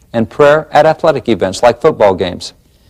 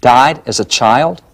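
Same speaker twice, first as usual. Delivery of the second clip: incredulous echo; slower than usual. Real, not acted. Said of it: "echoes the judge in disbelief".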